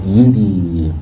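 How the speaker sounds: "يدي" starting on a voweled ya, yi-dee; voweled second ya. Shown as a demonstration. Teacher showing the second ya of a split letter, "يدي" sounded separately. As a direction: begin "يدي" with the second half of the doubled ya. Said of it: "الياء الثانية متحركة".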